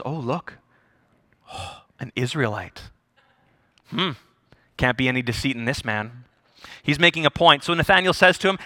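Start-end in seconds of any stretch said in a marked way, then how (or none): 0.0-6.2 low, soft deadpan with a sigh; sarcastic. Acted. Jesus watching Nathanael approach in finery, sarcastic. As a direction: dryly feign being impressed. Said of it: "Christ's glorious sarcasm".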